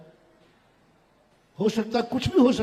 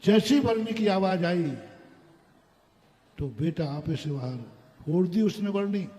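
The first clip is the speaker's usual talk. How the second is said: ordinary talk, nothing marked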